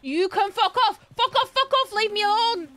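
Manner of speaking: furious yelling, high and loud; angry shouting. Acted. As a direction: yell it at full force. Shouting at an attacking animal.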